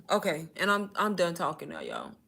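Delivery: breathless after a long talk; winded and quiet; out of breath. Real, not acted. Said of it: "I'm out of breath".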